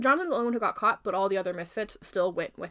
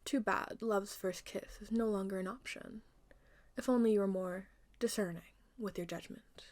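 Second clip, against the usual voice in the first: quiet, understated mockery; hushed, cool gloating; mocking queen; 7 dB quieter than usual. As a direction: taunt her softly. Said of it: "start to mock her".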